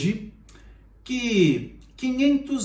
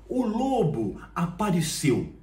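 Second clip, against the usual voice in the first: ordinary talk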